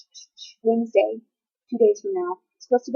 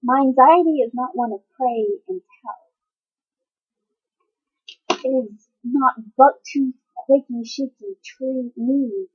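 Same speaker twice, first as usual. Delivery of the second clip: poem recital. Acted.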